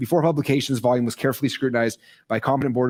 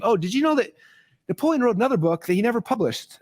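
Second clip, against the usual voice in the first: excited reveal; 10 semitones higher than usual. Retold or imitated. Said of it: "Don Green's like".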